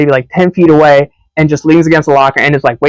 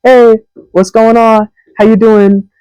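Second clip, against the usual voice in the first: high, slow, overly friendly hallway hello; imitating a friendly hi in the hall; friendly greeting; 7 semitones higher, slower than usual. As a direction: greet her brightly and slowly, higher up. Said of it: "at first I was friendly".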